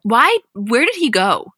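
honestly stunned by the news; shocked disbelief. Real, not acted. Shocked that Troy left the show.

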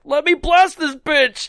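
high, loud cocky voice; hammed-up Cyclops; mock tough guy. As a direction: crow it like a hothead. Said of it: "Cyclops is like".

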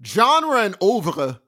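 "Genre and oeuvre" drawn out slowly in a French way; fancy French try. Shown as a demonstration. To friend, attempting French: slow "Genre and oeuvre". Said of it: "still not saying it right".

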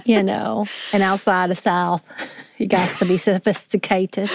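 lightly put-on Southern accent. Teasing co-host about Southern sophistication, mock Southern accent. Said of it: "Is this your Southern accent".

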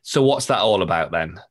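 broad Northern English accent. Shown as a demonstration. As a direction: say it like a blunt Northerner. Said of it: "I have to say this in a proper Northern accent".

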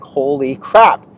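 imitating his own freaked-out self at the door; holy crap moment, voiced in mild alarm; retold panic. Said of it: "I was scared".

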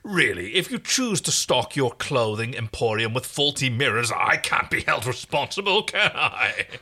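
lightly voiced haughty royal; a hint of a vain king; pompous alien royal. Rigel's voice, held.

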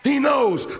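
loud high proclamation; preacher at full force; preaching shout. Real, not acted. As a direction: drive it home, loud. Preacher repeats the climax.

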